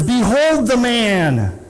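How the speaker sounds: lightly voiced Pilate presenting the prisoner; Pilate proclaiming. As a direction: announce it slowly like a Roman governor. Pilate presents Jesus to crowd.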